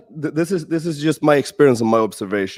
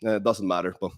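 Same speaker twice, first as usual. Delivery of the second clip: unresponsive brush-off; 5 semitones lower, 6 dB quieter, faster than usual. Acted. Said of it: "They might just be like".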